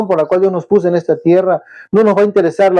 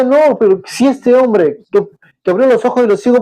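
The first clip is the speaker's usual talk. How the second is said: doubting question; 5 semitones higher than usual. Retold or imitated. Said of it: "otro grupo decía".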